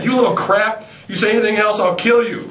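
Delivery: mock hysterical threat. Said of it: "with almost mob hysteria".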